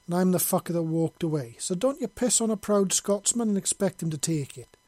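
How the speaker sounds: proud angry Scot listing his scars; indignant and proud. A narrator's reading. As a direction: boast and scold at once, full brogue. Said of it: "with a mixture of indignance and pride".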